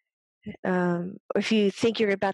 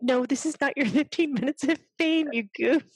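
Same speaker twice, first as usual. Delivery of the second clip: tag; 6 semitones higher than usual. Retold or imitated. Teasing the spirit with mock scolding.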